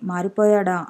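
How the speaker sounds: plain reading voice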